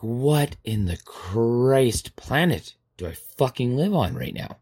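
slow, drawn-out exasperation; exasperated disbelief. Acted. Reacting to a coffee-stained coloring sheet, exasperated. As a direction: stretch the words in baffled disbelief.

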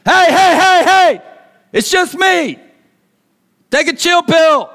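high, loud attention-getting shout; urgent high-pitched yelling; yelling over storm. Acted. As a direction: holler to be heard over wind. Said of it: "because of the loudness and the wind".

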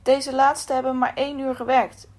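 measured, solemn Bible reading; a preacher reading Matthew aloud, solemn; scripture reading. A narrator's reading. Reads scripture passage.

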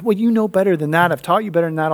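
mock exasperated telling-off of a child; huffing dad scolding. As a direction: act out a huffy dad's lecture. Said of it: "huffing and puffing".

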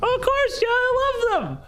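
put-on very high, gushing child voice; high-pitched nine-year-old overjoyed; delighted little girl. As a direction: squeal it like a thrilled kid.

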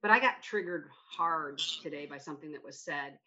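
deliberately calm. Real, not acted. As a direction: hold back the yelling, keep it calm and low. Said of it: "say this in a calm way".

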